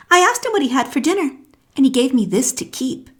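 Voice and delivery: put-on boastful elephant's child. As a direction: show off the new nose quickly.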